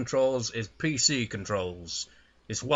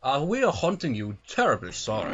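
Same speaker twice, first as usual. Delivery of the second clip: politely apologetic posh English ghost; mock well-mannered English accent. Gamer playing an apologetic English ghost, posh English accent. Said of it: "posh accents".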